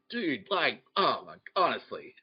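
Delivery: attempted British royal accent; slowly put-on British accent, half-managed; British King Charles. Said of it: "'cause he's British".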